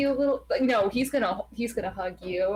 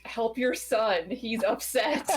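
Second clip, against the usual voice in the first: mild pointed glare; slower than usual. Acted. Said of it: "glare at him, like".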